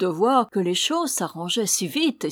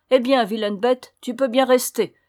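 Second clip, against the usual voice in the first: louder, higher, vexed outburst; cross scolding; 4 semitones higher, 6 dB louder than usual. A narrator's reading. Cato kicking the little dog away, cross and scolding. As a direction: tell off a disobedient animal.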